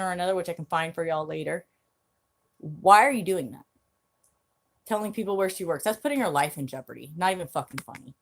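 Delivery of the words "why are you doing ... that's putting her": loud demanding question; angry. Real, not acted. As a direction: call him out, loud and angry. Angry rant at a stalker.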